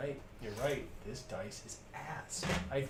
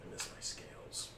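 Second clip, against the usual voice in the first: wistful whisper; 4 semitones lower, 7 dB quieter than usual. Acted. Character wistfully missing scales.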